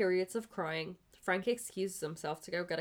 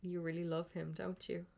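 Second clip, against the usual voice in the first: wavering voice; 7 dB quieter than usual. Acted. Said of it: "Frank's voice wavers".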